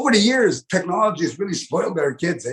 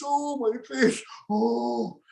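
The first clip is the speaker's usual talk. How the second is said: aching laughter; 6 semitones higher, 5 dB quieter, much slower than usual. Retold or imitated. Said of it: "they grab their cheeks".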